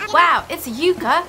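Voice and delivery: punchy put-on Australian accent; lightly hammed-up Australian accent; strange Australian accent. Rodney thanking the player for a yucca, strange Australian accent. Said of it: "very strange accent 'cause of Christina".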